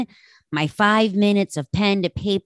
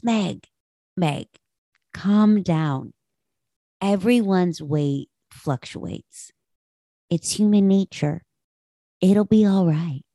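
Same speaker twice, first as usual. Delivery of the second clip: mildly calm, slow, reassuring retelling; calm Michael. Retold or imitated. Husband figure soothing Meg over her weight, gently calm. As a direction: lightly imitate someone talking her down, unhurried. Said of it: "just so calmly".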